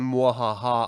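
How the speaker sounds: quick mock villain cackle; a light evil mwahaha; evil villain laugh. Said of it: "twisting his evil curled mustache and saying".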